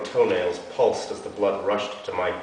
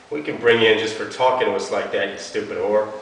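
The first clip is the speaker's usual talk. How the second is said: threatening cop; 5 dB louder than usual. Acted.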